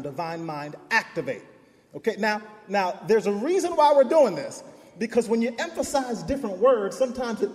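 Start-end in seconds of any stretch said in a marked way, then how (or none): 0.0-1.4 ACTIVATE stressed after divine mind. Shown as a demonstration. Preacher showing congregation the third take, stress on activate. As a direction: save the emphasis for activate. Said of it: "The third time".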